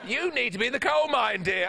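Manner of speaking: put-on Bradford accent. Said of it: "my impression of people who worked in coal mines".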